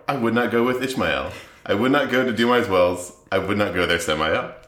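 sing-song Seuss-style rhyme recital; lilting storybook cadence; reading a children's book. Acted. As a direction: read it like a silly picture book, bouncing on the rhythm. Reads parody children's book aloud.

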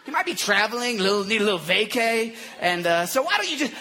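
mock-sympathetic needling; teasing, pitch bobbing up on each jab; trash talk. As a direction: act out a taunter feigning helpful excuses. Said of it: "I like the speaker's talking trash".

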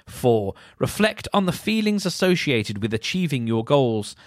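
mock-earnest list reading; sending up the self-help steps as you read. Real, not acted. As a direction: read each step with exaggerated, mocking emphasis. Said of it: "can you hear the mocking tone in my voice".

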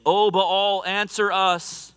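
prophets of Baal calling out to their god, pleading. Acted. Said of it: "called upon the name of Baal ... saying".

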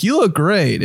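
put-on girl giving compliment. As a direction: lightly imitate a girl's compliment, voice lifted. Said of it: "when a girl's like".

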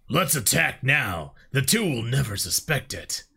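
lightly voiced eager alien warrior; eager elite. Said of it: "For elite voices, we'll use Audacity to make it deeper sounding".

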